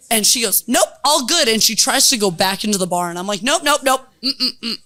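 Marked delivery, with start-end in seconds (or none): 0.7-1.5 high, loud and chipper; breezy dismissal. Retold or imitated. Drunk woman breezily tells the bartender all is fine. 3.4-4.7 louder, higher string of nopes; firm refusal. Retold or imitated. Bartender blocking the drunk woman from the bar, firm no.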